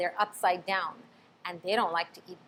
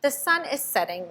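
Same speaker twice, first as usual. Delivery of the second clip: warning; 6 semitones higher than usual. A narrator's reading. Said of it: "warned Flitter".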